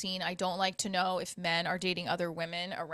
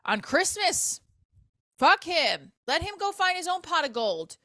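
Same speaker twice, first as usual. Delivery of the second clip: sassy dismissal; 8 semitones higher, 4 dB louder than usual. Pretend. Empowered rant continues.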